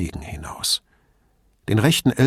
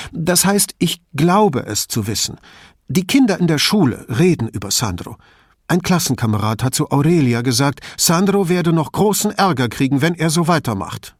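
higher-voiced anxious mother, pressing on; a worried mother confiding in the detective, higher; 6 semitones higher, 4 dB louder than usual. A narrator's reading.

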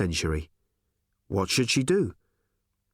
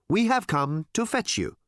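alien voice; 9 semitones higher than usual. Acted. Alien telling Tricia their mission, high and odd. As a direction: announce it like an alien.

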